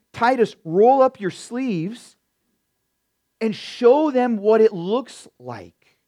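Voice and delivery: loud, slow call to roll up sleeves; a hint of Paul rallying Titus, loud and slow; rallying paraphrase of Paul. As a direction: rouse Titus like a coach urging him on. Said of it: "This is ... language".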